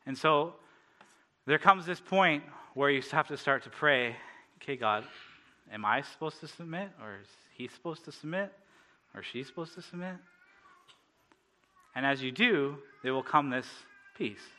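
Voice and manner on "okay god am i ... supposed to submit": softer, questioning prayer; tentative prayer. Acted. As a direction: ask God quietly, unsure of the answer.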